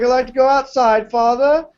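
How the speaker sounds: put-on Peppa Pig accent. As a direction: put on a little boy's cartoon British accent. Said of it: "characters talk on this little kid show".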